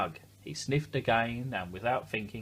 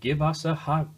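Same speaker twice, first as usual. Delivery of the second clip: higher and louder eager call; cried out; 6 semitones higher, 6 dB louder than usual. A narrator's reading. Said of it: "cried Douglas".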